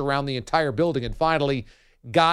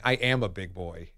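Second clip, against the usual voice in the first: quiet mock reply; 8 semitones lower, 6 dB quieter than usual. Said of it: "hearing her voice and saying".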